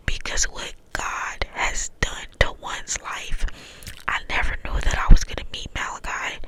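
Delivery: cupped hand whisper, close to the mic. Real, not acted. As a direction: whisper through cupped hands. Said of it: "I'm trying to do the cup whispers".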